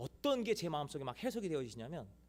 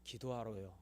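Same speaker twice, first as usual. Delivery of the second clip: quiet reply; 6 semitones lower, 6 dB quieter than usual. Retold or imitated. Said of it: "제가 그때 뭐라고 그랬냐면".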